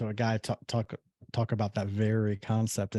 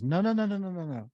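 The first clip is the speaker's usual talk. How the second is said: high emphatic refusal; 8 semitones higher than usual. Retold or imitated. Mailman refusing in retold story.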